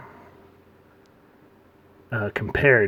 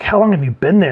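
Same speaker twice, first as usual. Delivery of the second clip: high, loud mock astonishment; incredulous question, pitched right up; surprised; 8 semitones higher, 8 dB louder, faster than usual. Joker forgot Six was around, surprised.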